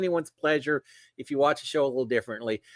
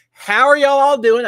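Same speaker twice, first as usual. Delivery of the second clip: excited greeting; 9 semitones higher, 10 dB louder than usual. Real, not acted. Greeting live chat viewers.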